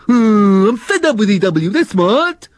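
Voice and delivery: high, huffy sulking voice; Nifty the slug fed up with the worm, high huffy voice. Acted. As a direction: grumble your complaint. Slug sulks.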